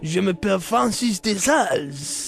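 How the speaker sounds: put-on slow, lightly French-accented introduction. Saint introduces himself to the host in a light French accent. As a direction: say your name like a French saint. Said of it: "doing it in English with the French accent".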